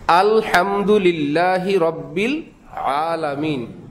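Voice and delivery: আলহামদুলিল্লাহি said slowly in Arabic recitation style; slow Quranic recitation of আলহামদুলিল্লাহি রব্বিল আলামিন. Shown as a demonstration. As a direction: recite আলহামদুলিল্লাহি রব্বিল আলামিন carefully, stretching each word. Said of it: "প্রথম যে বললাম আল".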